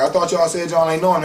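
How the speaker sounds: loud, high retold accusation; imitated police challenge. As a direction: act out catching someone in a lie, loudly. Police challenge the two brothers.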